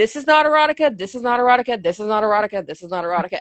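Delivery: mock mad, fuming, repeated over and over. Retelling standing in the bookstore aisle: imitating own angry complaining. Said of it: "and I was mad".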